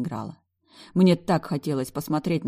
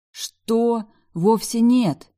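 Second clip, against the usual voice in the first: shocked protest; 7 semitones higher, 6 dB louder, much slower than usual. A narrator's reading.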